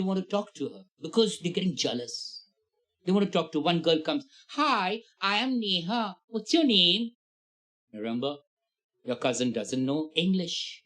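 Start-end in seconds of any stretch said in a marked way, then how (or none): 4.5-7.1 bubbly friend. Retold or imitated. Friend greets cousin brightly.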